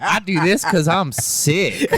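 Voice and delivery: put-on slow, drawn-out country accent, laughing through a high shout. Comic quoting Will Loden's riff, hammy country accent. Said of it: "he said it in that accent, like, that country".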